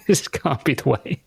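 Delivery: words breaking up with real laughter; laughing disbelief. Real, not acted. Baffled parent on kids' videos, laughing in disbelief. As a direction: laugh helplessly through the words.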